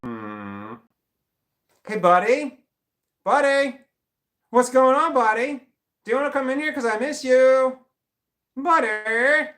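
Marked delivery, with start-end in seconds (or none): 1.9-9.5 put-on high cooing baby talk to a pet; sweet baby talk. Owner coaxing the dog back in, high baby talk. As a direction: coax the dog in, sugary and high.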